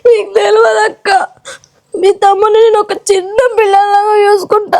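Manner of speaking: tearful wail to her sister-in-law; wife crying to sister-in-law over husband. Acted. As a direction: sob the words out. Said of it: "ఏడవకు, ఏడవకు గాని".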